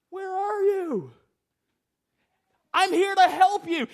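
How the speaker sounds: calling out. Acted. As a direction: call out to a lost people searching for them. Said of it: "He called out to them".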